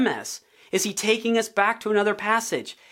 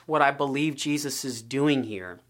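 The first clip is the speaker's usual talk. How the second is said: normal talking voice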